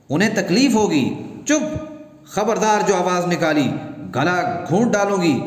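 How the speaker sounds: angry scolding. Acted. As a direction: shut the child up, threatening. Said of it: "डांटती है".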